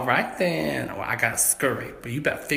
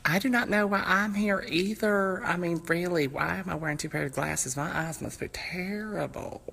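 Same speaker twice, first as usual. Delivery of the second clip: higher, puzzled voice; a bit higher, baffled; dopey suspect; 5 semitones higher than usual. Acted. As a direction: wonder aloud like a confused suspect. Reindeer character voiced.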